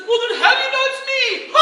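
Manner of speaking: loud, high laughing patter; cheesy showman punchline. Retold or imitated. Performer delivering a corny punchline, loud. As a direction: land the corny joke big.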